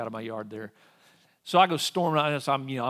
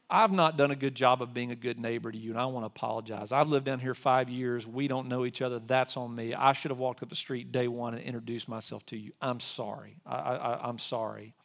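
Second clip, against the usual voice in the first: sincere apology. Retold or imitated. Apologizing to the neighbor.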